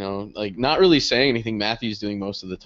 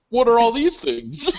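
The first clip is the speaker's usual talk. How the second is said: much higher, slow, through laughter; laughing question; 12 semitones higher, 5 dB louder than usual. Retold or imitated. Guy leafing through her sex toy magazine, laughing. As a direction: fake innocence cracking into laughs.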